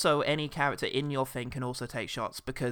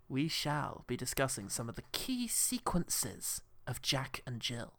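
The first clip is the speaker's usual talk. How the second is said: stuffy film critic host; 4 dB quieter than usual. Acted. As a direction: savour every word like a critic. Hosts mock film review show.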